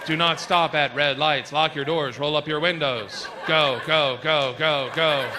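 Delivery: slow, firm GPS commands; urgent navigation voice. Retold or imitated. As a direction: warn the driver through the danger. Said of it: "It was like".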